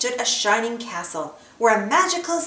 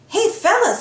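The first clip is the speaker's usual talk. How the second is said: much higher, louder goofy yell to the pals; 11 semitones higher, 4 dB louder than usual. Acted. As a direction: shout it out, dopey and amazed. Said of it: "Goofy yelled".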